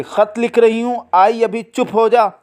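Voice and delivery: put-on high-pitched call to the child; calling out loudly. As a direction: call from another task, mildly exasperated. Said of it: "ज़ोर से".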